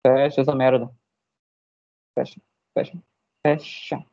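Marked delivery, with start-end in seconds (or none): 2.2-4.1 muttered under breath; whispered. Real, not acted. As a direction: whisper it to yourself. Frustrated with the app.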